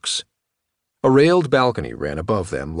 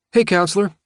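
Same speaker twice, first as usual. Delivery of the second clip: sarcastic greeting; 10 semitones higher, 3 dB louder, faster than usual. Acted. Sam mocking greeting to lawyer.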